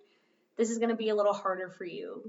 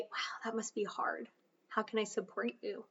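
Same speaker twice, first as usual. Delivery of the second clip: soft supportive; 12 dB quieter than usual. Shown as a demonstration. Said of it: "That sounded funny".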